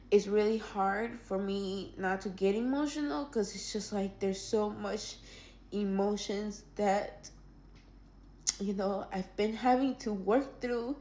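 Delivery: quiet, slowing, fighting back tears; words held back so she won't cry; holding back tears. Real, not acted. Telling viewers her story, quietly holding back tears. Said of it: "I'm trying not to, like, cry".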